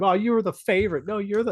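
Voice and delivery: high-pitched mock sibling teasing; imitating siblings joshing. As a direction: mimic a playful back-and-forth squabble, pitched high. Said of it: "joshing each other the entire time".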